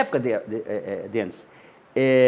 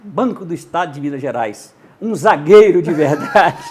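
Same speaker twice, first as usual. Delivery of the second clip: loud, slow radio ad with "zagueiro" stretched; a hammed-up excited ad read; enthusiastic announcer read; 6 dB louder than usual. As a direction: sell it like a keen young announcer.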